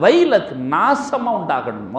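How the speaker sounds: slow, emphatic retold rebuke; angry curse. Prophet rebuking the man who questioned his fairness, retold angrily. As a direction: pronounce the curse with measured anger. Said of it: "கோபமாக சொன்னார்கள்".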